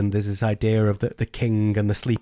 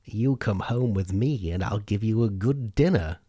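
witch voice; 4 dB quieter than usual. Acted. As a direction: lure the boy in gently. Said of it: "And the witch said".

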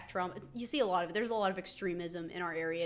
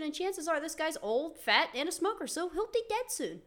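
mock cruel punchline; 8 semitones higher than usual. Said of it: "looked at him and I'm like".

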